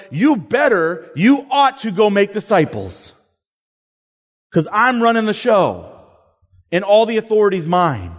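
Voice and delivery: commanding, pushy, a touch of you better; bossy demanding Jesus. Pretend. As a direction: lay down orders like the boss running the show. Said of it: "That doesn't sound like our Jesus".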